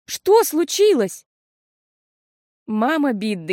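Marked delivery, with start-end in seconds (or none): 0.0-1.3 alarmed. A narrator's reading. Sister asks anxiously.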